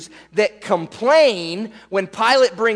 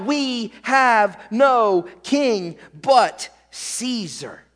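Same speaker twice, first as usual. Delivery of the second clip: slow, raised word-by-word declaration; mock shout; 4 semitones higher, much slower than usual. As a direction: imitate a crowd proclaiming, drawn out and higher. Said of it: "instead they'll shout".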